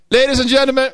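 mock-formal herald introduction; announcer voice.

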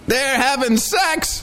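high, slow gossipy gasp; mock-scandalized. Host reacting to the shark report, high mock gossip. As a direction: say it like juicy gossip.

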